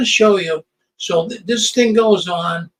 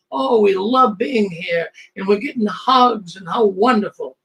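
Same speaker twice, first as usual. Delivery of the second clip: mock gushing. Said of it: "they're showing all these people, oh, how wonderful".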